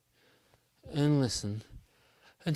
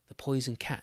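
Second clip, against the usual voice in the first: ordinary delivery, nothing marked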